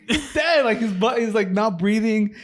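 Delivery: high-pitched, upset insistence; retold distress. Kid telling dad the dog is dead, distressed. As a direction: imitate a kid frantically explaining.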